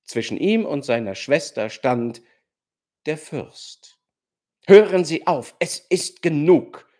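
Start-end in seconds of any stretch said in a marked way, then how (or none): 4.7-6.9 loud, firm stop; emphatic command. A narrator's reading. The prince steps between siblings, emphatic and loud. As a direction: put an end to it with force. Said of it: "sagte er nachdrücklich".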